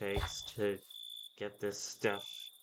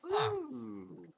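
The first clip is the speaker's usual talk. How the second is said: high, delighted ooh of discovery; pleased surprise at finding the mod; 14 semitones higher than usual. Real, not acted. Spotting a wanted mod.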